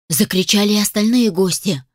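usual speaking voice

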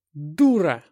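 loud angry bark; furious outburst. A narrator's reading. Hero explodes at Anna, loud and furious. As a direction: spit the insult out in rage. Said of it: "вскипел я".

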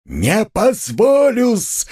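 enraged scream, every syllable drawn out; shout with all his strength. Acted. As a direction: bang the table and scream it. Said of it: "крикнул он вдруг изо всей силы".

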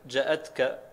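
جاءتك as "ja'atka", first vowel short; hamza without madd. Shown as a demonstration. Student rereading al-Hasan's variant, جاءتك as short "ja'atka". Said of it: "بالهمزة من غير مد".

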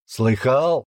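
slow, high, teasing echo; a soldier parroting the teen to mock him; mocking mimicry. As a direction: mimic the boy's words scornfully. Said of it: "передразнил Сергеич".

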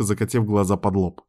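ordinary delivery

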